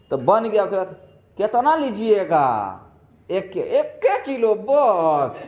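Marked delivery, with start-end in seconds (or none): 1.4-5.3 polite Bihari exchange. Retold or imitated. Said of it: "सबसे पहले उसको बोलिएगा".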